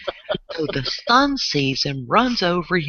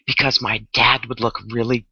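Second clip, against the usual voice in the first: put-on Valley Girl. Shown as a demonstration. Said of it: "go total Valley Girl".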